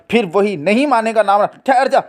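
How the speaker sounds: put-on mother snapping at her noisy child; scolding.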